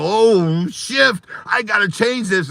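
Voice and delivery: high-pitched startled exclamation; re-enacted alarm. Re-enacts alarm on going live.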